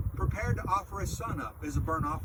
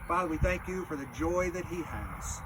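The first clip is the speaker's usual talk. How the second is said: hushed graveside prayer; 2 semitones lower than usual. Acted.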